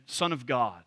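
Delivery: Son of God slowly set apart; slow, measured emphasis on Son of God; stress on phrase. Shown as a demonstration. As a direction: give Son of God deliberate weight. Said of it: "going through each phrase".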